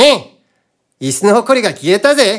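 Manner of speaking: sharp, squeaky, shrill, piercing put-on character voice. Showing different character types from one voice: piercing, shrill character voice. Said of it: "하나는 좀 삑 쏘는 ... 이렇게 찍 지르고".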